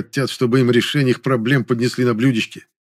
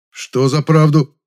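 slow, louder, raised question; restrained exasperation; 5 semitones higher, 6 dB louder, slower than usual. A narrator's reading. Man repeats friend's words while holding back swearing, exasperated. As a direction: drag it out, holding back a curse. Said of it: "Пытаясь сдержать нецензурное слово".

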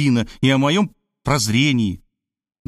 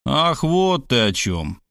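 slower, relieved and softened; softening; slower than usual. Acted. Robert softens toward Sveta, relieved, slow and gentle. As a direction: let the tension go, slowly. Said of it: "смягчился я".

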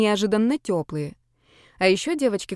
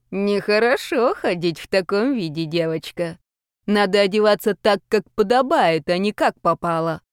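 put-on stern old ghost. Second ghost lectures the girl.

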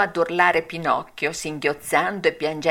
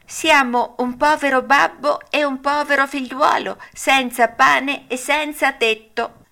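higher, pleading poor father; Geppetto's voice; 7 semitones higher, 3 dB louder than usual. A narrator's reading. Geppetto begging shelter at the hut door. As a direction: ask for shelter humbly.

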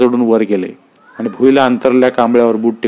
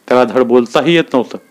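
ordinary delivery

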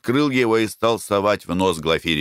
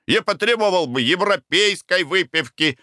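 annoyed; 10 semitones higher than usual. A narrator's reading. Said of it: "начал сердиться".

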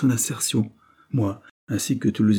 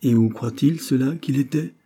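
lively; 4 semitones higher, 4 dB louder than usual. Acted. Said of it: "demanda-t-elle vivement".

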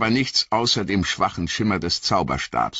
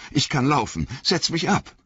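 Frodo, gasping; 8 semitones higher than usual. A narrator's reading. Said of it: "keuchte Frodo".

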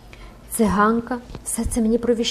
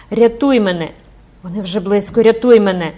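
louder, rising desperate cry; terrified girl begging mother, loud; panicked plea; 7 dB louder than usual. Acted. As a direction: scream for your mother to save you. Girl pleads for rescue.

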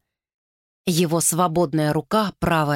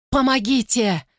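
pained moaning cry for help; moaning plea; 5 semitones higher than usual. Acted. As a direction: moan it out in pain. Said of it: "стонала женщина".

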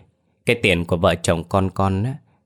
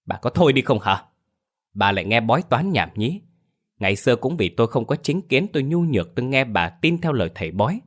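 angry scolding husband; 3 semitones higher than usual. Acted. Husband scolds wife over their dead son, angry and pleading. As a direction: scold her, voice rising with grief.

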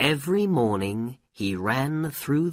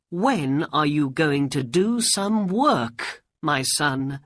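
higher-pitched, exasperated mother's voice; scolding mother; 7 semitones higher, 4 dB louder than usual. A narrator's reading. Mother nagging her lazy son to work, high and scolding. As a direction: plead and scold in a raised pitch.

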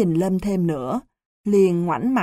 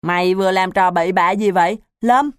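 loud accusing call; 4 dB louder, faster than usual. Acted. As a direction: call him out loudly, accusing. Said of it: "Tần kêu lớn". (la lớn buộc tội, nhanh và to dần)

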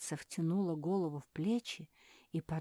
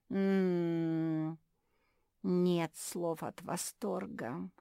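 dreamy; 3 dB louder, much slower than usual. Acted. Zefirka rolls eyes in bliss.

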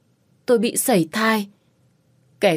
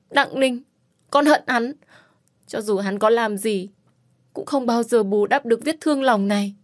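hateful; 4 semitones higher than usual. Acted. Tells bác Minh she hates him.

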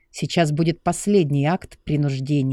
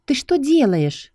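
alarmed woman; 10 semitones higher than usual. Acted. She tries to break free.

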